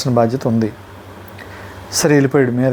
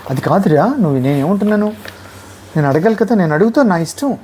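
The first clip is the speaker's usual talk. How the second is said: higher, wide-eyed mock innocence; feigned innocence; 4 semitones higher than usual. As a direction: play dumb, acting puzzled. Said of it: "అంటే".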